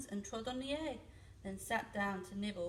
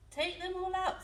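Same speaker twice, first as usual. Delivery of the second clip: high, louder firm order; firm command; 8 semitones higher, 5 dB louder than usual. Acted. Wise old man orders the old lady to clear house, high firm command. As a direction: tell her decisively to clear them out. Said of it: "said the wise old man".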